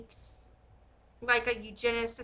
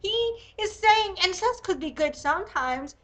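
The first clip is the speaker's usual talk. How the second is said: shocked disbelief; 6 semitones higher, 4 dB louder than usual. Real, not acted. Shocked reaction to the quote.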